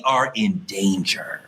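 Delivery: mock ominous warning; ominous tease. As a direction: drop low and slow like a horror trailer.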